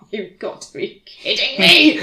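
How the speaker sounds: high, loud, laughing disbelief; exasperated outburst. Retold or imitated. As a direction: burst out in mock outrage. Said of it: "and I just went".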